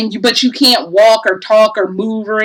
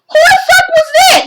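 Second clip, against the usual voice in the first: high, exasperated "who was that" at a game; baffled outburst. Real, not acted. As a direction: ask it as if nobody ever explained. Baffled by unexplained game character.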